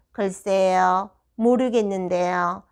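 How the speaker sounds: put-on slow, monotone child's reply; drawn-out, toneless know-nothing voice; deadpan stonewalling. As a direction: imitate a pupil playing dumb.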